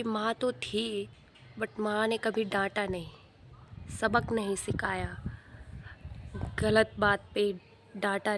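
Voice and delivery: quiet last words of a condemned thief; regretful son. Acted. Condemned son blames his mother.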